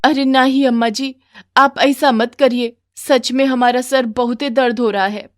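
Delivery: daughter-in-law answering her mother-in-law. Acted.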